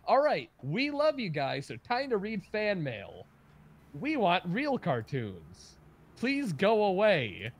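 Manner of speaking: high, loud, drawn-out host voice; cartoon TV hosts. Recounting a cartoon clip for friends, imitated TV hosts. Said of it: "two hosts going like".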